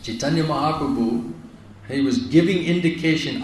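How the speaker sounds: ordinary delivery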